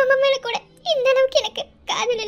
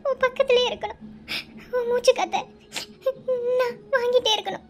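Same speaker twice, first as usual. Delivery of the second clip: tearful pleading; 3 semitones higher than usual. Acted. Bride pleading to husband, crying.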